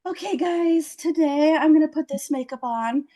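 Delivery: imitating a young makeup vlogger; mock beauty-tutorial intro. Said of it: "twenty-six-year-old beautiful women with cheekbones".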